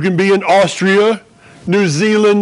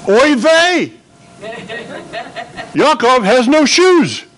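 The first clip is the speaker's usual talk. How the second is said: high, lively Yiddish mother voice; yiddish accent; 6 semitones higher than usual. Acted. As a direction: play the fretting Jewish mom, pitched up. Mom voiced in a story.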